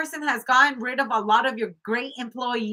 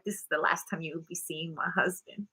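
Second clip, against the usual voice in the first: cold low warning; 7 semitones lower, 10 dB quieter than usual. Retold or imitated. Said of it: "she's like".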